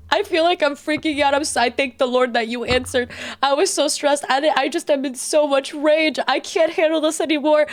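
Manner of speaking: high, overwrought imitation of a frantic sister; mimicking sister's rant. S0 mocking her sister's midnight phone rant, high and frantic. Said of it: "she's like".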